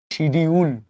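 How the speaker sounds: শিডিউল said the Bangla way, shi-di-ul; শিডিউল with a Bangla shi sound; Bangla pronunciation. Shown as a demonstration. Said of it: "আমরা বাংলায় বলি". (শিডিউল Bangla উচ্চারণে)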